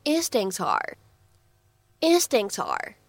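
"instincts are" linked into one smooth run; "instincts are" said without a break; linking demo. Shown as a demonstration. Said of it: "可以读成".

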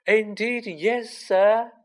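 high-pitched creature voice, emphatic; eager house elf. A narrator's reading. House elf admitting to the boy, eager high voice.

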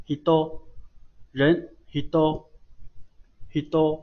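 hido with the t sounding like d; no puff of air on the second syllable of hido; unaspirated t. Shown as a demonstration. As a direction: model hido slowly, unaspirated. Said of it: "听上去特别像读作多哈".

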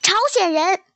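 put-on a boy's harsh taunting yell; 朝鲜人 hurled as an insult; hateful shout. A narrator's reading. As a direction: shout it down from above, full of hate. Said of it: "他朝小豆豆大声喊".

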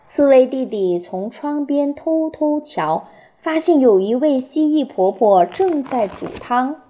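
put-on reading a picture book to children; expressive storytelling, phrase by phrase with clear pauses; 给孩子读故事. A narrator's reading. (绘声绘色地给孩子讲故事)

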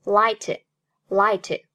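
"light" with the final t held and not released; "light" ending on an unreleased t; t dropped. Shown as a demonstration. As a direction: say "light" with a silent, swallowed t. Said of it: "读作light".

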